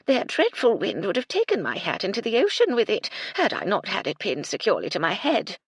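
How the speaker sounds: high, loud dotty dowager; eccentric old lady. Acted. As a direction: prattle like a dotty widow. Widow speaks.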